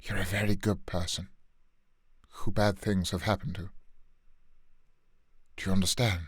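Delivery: a hint of Sirius comforting Harry; Sirius Black. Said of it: "quick goody Sirius Black moment".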